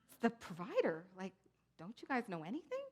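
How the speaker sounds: mock condescension. Showing how Randy didn't answer, mock condescending and incredulous. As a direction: toss it off as if everyone should know. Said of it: "but he wasn't like".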